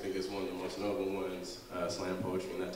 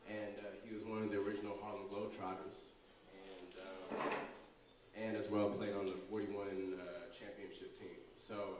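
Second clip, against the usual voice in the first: solemn, mourning; 9 dB quieter than usual. Real, not acted. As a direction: speak quietly in respect for the dead. Announces family death, asks for silence.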